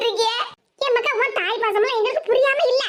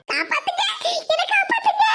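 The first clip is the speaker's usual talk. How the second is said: rising panicked call for help, much higher; cry for help; 6 semitones higher than usual. Acted. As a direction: beg to be rescued, voice climbing high. Choked woman cries for help. (உதவிக்காக பதறி உயர்ந்த குரலில் கத்துதல்)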